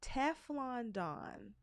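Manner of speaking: Teflon Don drawn out very slowly, every syllable spelled out; said slowly and clearly. Shown as a demonstration. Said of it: "please tell me if I'm wrong".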